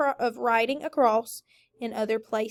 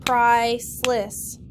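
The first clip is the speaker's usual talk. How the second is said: slow, louder beats, price-less; clapped syllables; 4 dB louder, slower than usual. Shown as a demonstration. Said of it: "Clap it".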